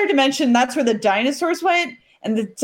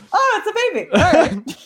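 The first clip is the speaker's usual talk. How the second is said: mock casual nun; 5 semitones higher than usual. Nuns voiced, laughing.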